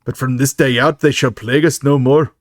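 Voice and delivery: best attempt at an Irish accent. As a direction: declaim it like an Irish gang boss. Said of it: "That's my best Irish accent".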